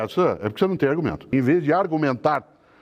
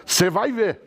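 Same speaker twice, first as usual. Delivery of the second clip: higher-pitched imitation of a threatening parent; mock parental threat; 5 semitones higher, much slower than usual. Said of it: "diz uma coisa que é absolutamente ameaçadora".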